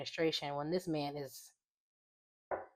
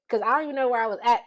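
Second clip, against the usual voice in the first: laughing at herself; 6 semitones higher, 10 dB louder, faster than usual. Real, not acted. Laughs at losing her thread.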